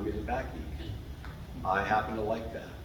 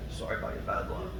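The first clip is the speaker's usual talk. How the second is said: laughing; 5 semitones higher than usual. Real, not acted. Teasing cold-state friend, laughing.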